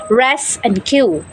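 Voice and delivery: "res" and "cue" said slowly as two separate beats; split into syllables. Shown as a demonstration. Teacher showing learners the two syllables, slowly. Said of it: "rescue has two syllables".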